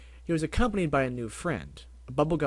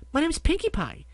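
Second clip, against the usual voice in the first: much higher, loud, bubbly pony voice; hyper Pinkie Pie; 13 semitones higher, 5 dB louder than usual. Acted. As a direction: bounce off the walls with glee. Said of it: "Pinkie waved a hoof".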